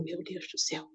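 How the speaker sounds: soft, dropped-away exclamation to oneself; heads-down dismay. Retold or imitated. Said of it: "colocaram a cabeça para baixo e falaram".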